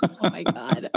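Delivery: smiling through the words. Real, not acted. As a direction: say it with a big grin. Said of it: "My cheeks hurt from smiling".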